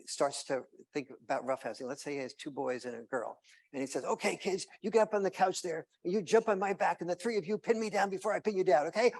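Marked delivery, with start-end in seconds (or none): 4.0-9.1 put-on higher, louder playful dad rallying the kids. Dad calling kids onto the couch, higher and louder. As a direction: pump the kids up for a wrestle.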